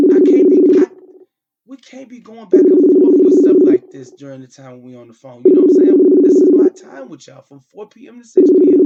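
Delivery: loud, heated scolding at full voice; angry shout. Real, not acted. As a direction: lay down the law, shouting. Father shouting into the phone.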